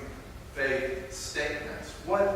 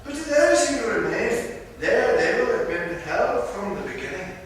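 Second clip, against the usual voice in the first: higher, louder Scottish brogue leaning hard on "those"; bad Scottish accent, emphatic; 6 semitones higher, 5 dB louder than usual. Preacher voicing the Spirit's warning in a bad Scottish accent, emphatic. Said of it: "do a really bad Scottish accent".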